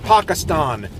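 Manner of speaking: Pakistan as "Pahkistahn", broad a; the local way, ah vowels; foreign pronunciation. Shown as a demonstration. Vlogger shows the pronunciation he rejects.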